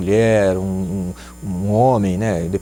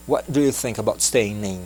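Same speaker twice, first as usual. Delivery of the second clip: gentle question. Shown as a demonstration. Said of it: "eu vou gentilmente perguntar".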